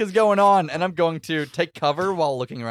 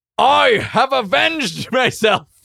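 very high, loud, victorious battle scream; 10 semitones higher, 7 dB louder than usual. Voicing a character who lifts the slain creature on an axe: screaming in character. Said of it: "and I scream out".

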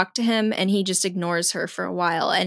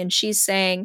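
normal talking voice

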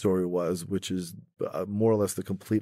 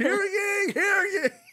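put-on town crier calling out, higher. Picturing a town crier with a bell spreading the news: town crier calling out. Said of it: "town crier with a bell just going".

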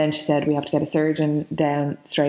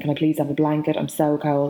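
put-on sobbing, crying voice. Retelling asking a nurse for a blanket: imitating own crying plea. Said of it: "started bawling, crying".

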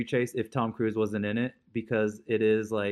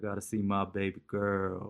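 put-on slow, drawn-out Southern accent; 5 dB quieter than usual. Quoting a favourite movie line with friends: Nicolas Cage Con Air voice. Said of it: "that's the best Southern accent ever".

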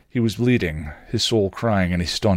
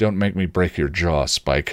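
threatening, menacing tone. A woman answers a man who sneered at her, threatening him. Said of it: "she threatened".

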